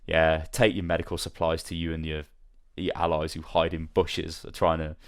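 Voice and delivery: understated mock-sarcastic send-off, a little low; lightly acted sarcasm. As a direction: imitate a dismissive jibe, drily. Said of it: "says something so, like, sarcastic".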